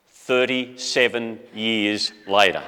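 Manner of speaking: thirty-seven years later, spaced out very slowly; measured punchline, each word given its time; slow, deliberate. Real, not acted. Grandson revealing the long wait to the congregation, slow and deliberate.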